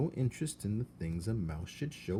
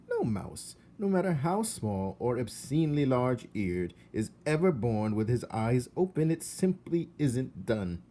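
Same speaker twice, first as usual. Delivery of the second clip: high, louder prim aunt, slowing at the end; Aunt Florence lecturing; 3 semitones higher, 4 dB louder than usual. Acted. Aunt correcting uncle, prim and high. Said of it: "said Aunt Florence".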